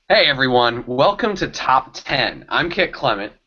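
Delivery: upbeat show-host welcome; host intro. Acted. Co-host opening the show to viewers, host voice.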